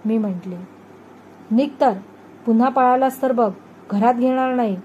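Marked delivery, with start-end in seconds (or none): 1.5-4.8 raised, louder scolding; mother warning the runaway son, loud and sharp; angry mother's threat. Acted. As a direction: snap the threat at the boy.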